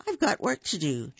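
fast whisper; fast conspiratorial whisper. Acted. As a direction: whisper it like a secret plan. Unvoiced whisper heard.

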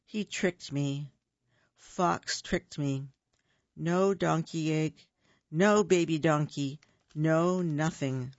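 understated sorrow; dejected Bear. Acted. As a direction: hang your head as you say it. Bear sad after trick.

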